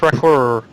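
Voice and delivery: "record" said with the last D left off; "record" as "recorr", no D; no final D. Shown as a demonstration. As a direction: end "record" on the R sound, dropping the D. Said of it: "There's no D there".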